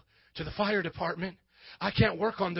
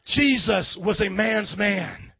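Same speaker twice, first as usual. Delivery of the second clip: slow grave statement; 2 semitones lower, slower than usual. Acted. Pastor restating quietly for weight.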